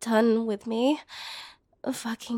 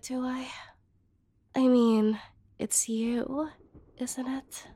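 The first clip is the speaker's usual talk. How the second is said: much softer, near whisper; intimate hush; 4 dB quieter than usual. Acted. Woman hinting her feelings to the brother in a soft hush. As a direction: lean in and hush it like a secret.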